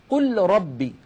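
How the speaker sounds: قل ربي with the ل said fully before ر; unassimilated lam; lam pronounced clearly. Shown as a demonstration. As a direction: keep the ل of قل distinct. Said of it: "العرب لا تقول".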